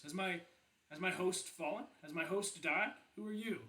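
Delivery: a touch of surprise, pitch lifting on the questions; questioning, mildly surprised. Acted. Helmet asks who its new holder is, mildly surprised. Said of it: "questioning ... she does seem surprised".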